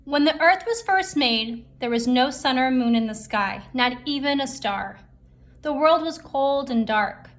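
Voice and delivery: lively read-aloud story voice; storytelling narration. A narrator's reading. Teacher reading a folktale to the class, lively. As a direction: tell it like a bedtime legend for kids.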